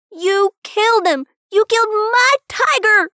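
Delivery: accusing scream, high and very loud. A narrator's reading. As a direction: scream the accusation with full force. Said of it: "Rob screamed".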